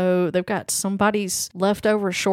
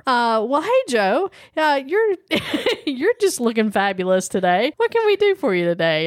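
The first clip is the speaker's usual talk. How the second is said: cheerful attendant; 2 semitones higher than usual. Acted. Voicing a cheerful car wash attendant.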